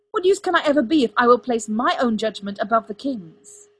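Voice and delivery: loud, high, impassioned tirade; shouting. A narrator's reading. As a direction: shout it in mounting frustration. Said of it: "Arthur shouted at him".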